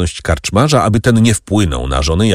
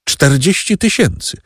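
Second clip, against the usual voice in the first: pitched-up indignant cry at the figure; exclaimed in disbelief; 8 semitones higher than usual. A narrator's reading. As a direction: echo the number back, outraged. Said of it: "zawołała karkątka".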